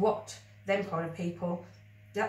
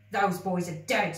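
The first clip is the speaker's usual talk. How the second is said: quavering; 4 dB louder than usual. Acted. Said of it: "his voice quavered".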